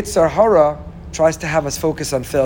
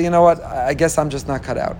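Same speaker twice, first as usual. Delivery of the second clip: resigned excuse. Retold or imitated. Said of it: "the next day you say".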